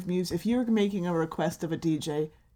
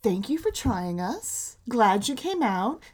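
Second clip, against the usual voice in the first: fake polite; slower than usual. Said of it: "we will just say to those two idiots".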